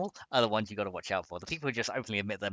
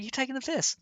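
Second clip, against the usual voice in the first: mock cheeky Aussie jab. Acted banter with chat.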